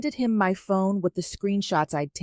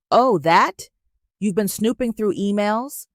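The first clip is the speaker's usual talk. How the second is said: dismissive; 3 semitones higher, 4 dB louder than usual. Acted. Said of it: "Regina laughed, a sharp, dismissive sound".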